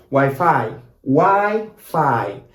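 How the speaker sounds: Wi-Fi as "why-FAAI", last vowel drawn out; long final sound. Shown as a demonstration. Teacher demonstrating the long last sound, slow Argentinian pronunciation. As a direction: stretch the end of Wi-Fi. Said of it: "with the long E sound".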